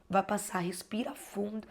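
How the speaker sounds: whispered comfort, almost no voice. Real, not acted. To a struggling new mother, a soothing whisper. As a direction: breathe the words out gently to calm her. Soothing viewer, breathe deeply.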